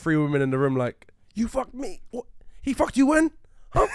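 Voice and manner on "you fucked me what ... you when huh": mock outraged woman. Mock outraged women in room.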